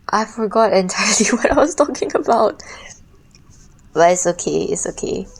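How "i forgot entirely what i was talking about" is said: laughing whisper, half to herself. Real, not acted. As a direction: breathe it out in a giggly whisper. Whispered aside while laughing.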